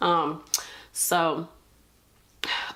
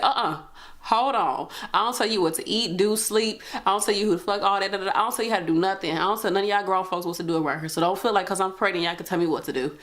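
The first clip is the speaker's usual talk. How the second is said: retold clapback; 2 semitones higher, faster than usual. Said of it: "I said".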